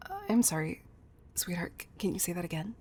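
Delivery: startled, tentative request to hear it repeated; taken aback. Acted. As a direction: stumble softly, caught off guard. Caught off guard by listener's answer.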